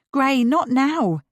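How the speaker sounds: loud, slow sharp snap; snapping. Acted. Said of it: "she snapped".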